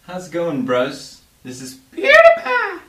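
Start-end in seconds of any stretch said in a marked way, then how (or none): 1.4-2.8 PewDiePie screamed high and loud; high, loud shouted name; catchphrase shout. Acted. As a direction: blast your own name like an intro jingle. Signature intro catchphrase.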